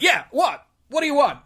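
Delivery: high, startled squeaky Tilly voice; impression of Tilly. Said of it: "and she's like".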